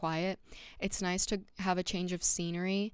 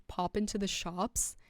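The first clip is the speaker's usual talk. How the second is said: slow, put-on British accent on "Pop into the shops?". Echoing her roommate's British phrase in a mock British accent. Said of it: "I did a British accent".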